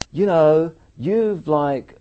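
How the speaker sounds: high, loud protest; retold argument at full push; heated retort. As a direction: push back hard, pitch and volume up. Acted argument with the officials.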